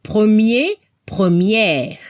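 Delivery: première with open final vowel; French masculine and feminine. Shown as a demonstration. Teacher modeling premier then première for students. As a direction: say première opening the mouth wide on the final è. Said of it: "La pronunciación".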